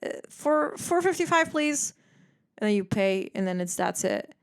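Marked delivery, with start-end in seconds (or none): 0.1-1.9 flat barista. Retold or imitated. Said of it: "They're like".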